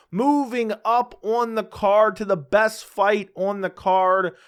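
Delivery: slow, drawn-out mock hype; sarcastic. Real, not acted. Host sarcastically bills the best fight on the card, sarcastic. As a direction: stretch it out like a big announcement, sarcastically. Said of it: "I'm being sarcastic".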